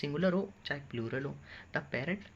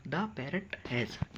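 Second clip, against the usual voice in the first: slow dictation; much slower than usual. Shown as a demonstration. Teacher dictates slowly.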